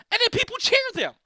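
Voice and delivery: high, loud disbelief; incredulous outburst. Acted. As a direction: shout it in outraged disbelief. Outraged comic disbelief.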